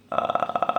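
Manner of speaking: soft creaky fry with no voice; unvoiced rattling vocal fry. Shown as a demonstration. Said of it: "desculpa, o fry vocal".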